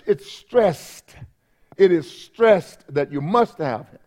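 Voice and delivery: "stressed" drawn out slowly and punched; emphatic stress. Shown as a demonstration. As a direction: lean hard and long on the word "stressed". Demonstrating the emphasis he describes.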